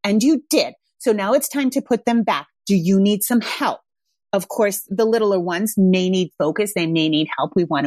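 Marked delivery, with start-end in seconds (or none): 0.0-3.8 firm, steady parent voice; mean it, calmly but firmly; firmer tone. Shown as a demonstration. Mom to child about blocks, firm calm tone. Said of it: "you can use a much firmer tone".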